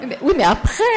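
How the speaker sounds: laughing question. Retold or imitated. Laughing while voicing the curious questioners.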